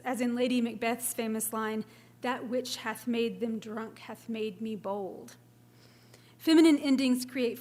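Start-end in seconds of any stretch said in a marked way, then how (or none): 2.2-5.4 slow, every syllable weighted evenly; slow ponderous spondees. Shown as a demonstration. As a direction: lean on each heavy beat, slowly. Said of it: "slow, ponderous strings of spondies".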